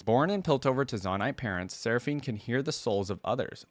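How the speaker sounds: measured read-aloud of a biography; deliberate storybook phrasing; story narration. A narrator's reading. Reads champion biography aloud.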